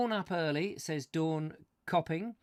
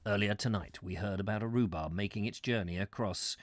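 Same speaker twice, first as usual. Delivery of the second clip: mock mystery narrator; 7 semitones lower than usual.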